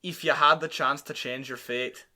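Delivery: put-on light Scottish accent, movie quote; attempted Scottish accent. Host warms up with a Disney movie line, attempted Scottish accent. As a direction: warm up a shaky Scottish accent. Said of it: "I gotta warm up with the".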